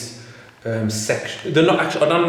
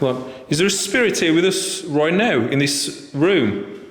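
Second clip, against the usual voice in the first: slow, raised voice to the empty room; talking to a ghost; 5 semitones higher than usual. Real, not acted. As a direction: call out slowly to an unseen spirit. Asking spirit if present.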